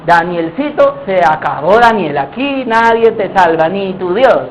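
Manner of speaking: low, slow mocking menace; taunting. Plotters telling little Daniel nobody saves him, low taunt. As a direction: gloat quietly, drawing out the doom.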